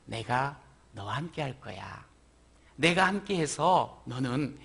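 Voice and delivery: God comforting a worried Moses, gently; gentle God voice. Acted.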